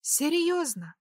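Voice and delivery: sharp high incredulous question; angry disbelief. A narrator's reading. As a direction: scoff at him in disbelief. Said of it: "Я начала злиться". (резкий недоверчивый вопрос)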